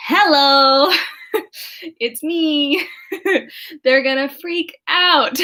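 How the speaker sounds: giggling while playing the creature's hello; a giggly mock greeting; laughing through it. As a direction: break into laughter mid-line. Creature imagines greeting the family.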